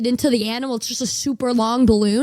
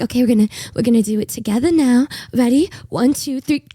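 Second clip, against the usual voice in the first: fast, louder playful count; bartender countdown; 4 dB louder than usual. Retold or imitated. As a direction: rush the countdown cheerfully. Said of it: "She's like".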